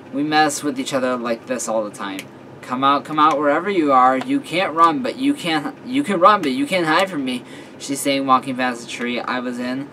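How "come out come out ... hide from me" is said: teasing seeker's call, lifting on "run"; playful taunt. Acted. Friend walking past the tree I hid in, playful taunt. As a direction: call out as if hunting a hidden friend. Friend hunting hider in woods.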